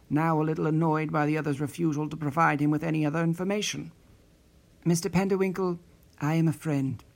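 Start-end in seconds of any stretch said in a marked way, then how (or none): 4.8-7.0 mild, even and calm; calm reply. Acted. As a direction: settle him without raising the voice. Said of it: "the voice replied calmly".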